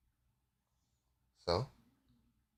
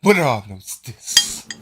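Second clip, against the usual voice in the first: high, slow, loud taunt; hammed-up teasing accusation; scandalized accuser; 7 semitones higher, 10 dB louder, slower than usual. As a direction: draw out each word in mock outrage. Game master voices Delgar's mock scandal.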